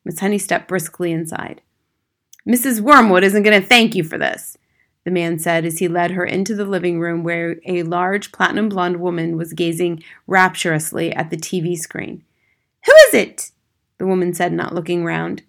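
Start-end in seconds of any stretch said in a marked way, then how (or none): 2.4-4.6 loud, grumbling warning; grudging father. Acted. Father leading teacher in to his wife, grudging. 12.9-13.5 very high, loud put-on woman's voice; mother's call. Woman watching TV, not looking round, calling shrilly. Wife calling from before television.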